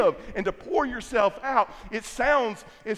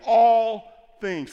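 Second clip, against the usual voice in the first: loud call to the congregation; 7 dB louder than usual. Shown as a demonstration. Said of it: "Everyone say".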